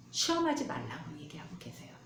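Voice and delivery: hushed whisper. Acted. Pastor whispering God's warning to the congregation. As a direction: lean in and whisper it. Quiet aside in sermon.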